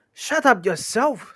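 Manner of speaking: high, loud, slow comeback; quarrelling troll shout; indignant retort. Acted. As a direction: throw it back loudly, stretched out. Tom snaps back in quarrel.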